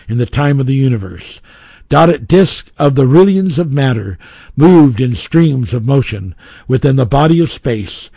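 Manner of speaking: grand, solemn reading of scripture-like text; epic fantasy narrator. Acted. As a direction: read it like an ancient creation epic. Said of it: "but I'll read a few parts".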